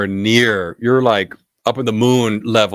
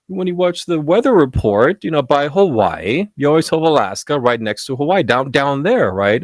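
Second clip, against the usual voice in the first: clueless cashier; 6 semitones higher than usual. Retold or imitated. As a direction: sweetly explain the weather map. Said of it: "And she goes".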